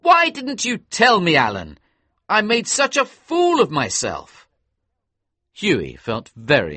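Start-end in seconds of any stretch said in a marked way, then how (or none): 0.0-4.5 high, loud embarrassed cry; young man crying out in shame, high and loud. A narrator's reading. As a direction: wail it, mortified. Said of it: "cried Hughie".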